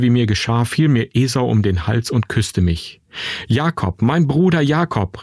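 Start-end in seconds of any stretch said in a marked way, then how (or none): 3.5-5.2 higher-pitched, heartfelt cry without shouting; calling out. A narrator's reading. Esau embraces his brother before weeping, emotional call. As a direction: call the name, then lift on the repeat. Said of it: "rief er".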